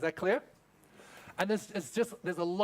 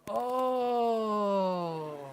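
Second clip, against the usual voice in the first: mock aha, higher; dawning realization; 4 semitones higher, 3 dB louder than usual. Husband finally gets the story, mock aha. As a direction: let the penny drop. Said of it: "and you'll go".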